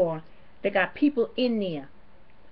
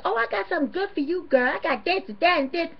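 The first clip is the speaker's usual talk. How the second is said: mock worker whispering deals; 8 semitones higher than usual. Vlogger voicing the worker offering held items, high pitched. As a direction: play the worker saving goods for a friend. Mimicking worker answering friend.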